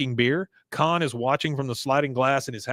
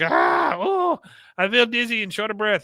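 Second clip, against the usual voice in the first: mock panic; 9 semitones higher than usual. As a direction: cry out as if about to collapse. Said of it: "He finally just like".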